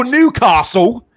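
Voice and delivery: Newcastle with a long Southern a, castle as carsel; mock the Southern way of saying Newcastle; Southern-style Newcastle quoted. Shown as a demonstration. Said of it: "you said it different there".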